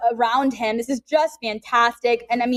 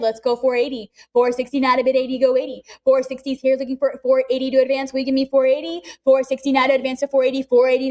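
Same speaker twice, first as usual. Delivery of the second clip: rapid auction chant; calling bids like an auctioneer; faster than usual. Real, not acted.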